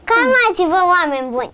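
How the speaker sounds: child's exasperated plea for calm, acted out; telling grown-ups off. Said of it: "le spun să se calmeze".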